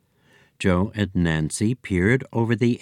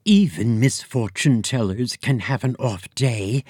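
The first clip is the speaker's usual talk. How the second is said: hiss; 2 semitones higher than usual. Acted. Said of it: "hissed Hati".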